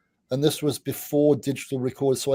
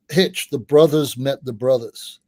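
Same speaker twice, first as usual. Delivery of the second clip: slow, louder, savouring each word; excited retold announcement; 5 dB louder than usual. Daryl on the phone announcing the meeting, slow and thrilled. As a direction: announce big news down the phone.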